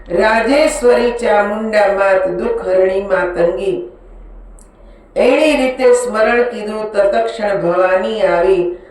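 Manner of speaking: measured, rhythmic scripture recitation; steady storytelling in verse; devotional verse recitation. Acted. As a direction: recite the sacred verse in an even metrical cadence.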